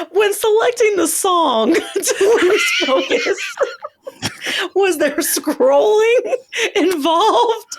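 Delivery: laughing question. Real, not acted. Co-host asks through laughter.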